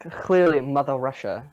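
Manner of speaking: a weak, half-hearted mock Russian accent; lightly put-on Russian accent. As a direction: try a Russian accent and barely manage it. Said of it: "Is that a Russian accent you just tried to do?".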